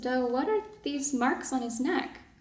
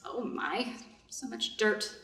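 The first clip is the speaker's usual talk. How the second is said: dismayed murmur; 2 semitones lower, 10 dB quieter, slower than usual. Acted. Washing filthy wounded man alone.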